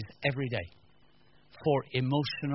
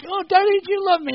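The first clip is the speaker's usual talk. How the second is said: put-on whiny child; 10 dB louder than usual. Kid voiced in story.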